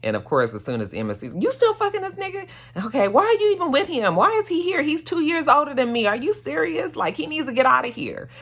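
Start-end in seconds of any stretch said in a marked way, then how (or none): 1.3-8.3 imitating an upset son. Son confronts mom's boyfriend.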